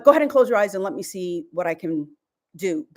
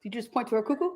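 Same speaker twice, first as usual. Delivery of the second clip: laughing; 5 dB quieter, faster than usual. Real, not acted. Laughing at a gesture.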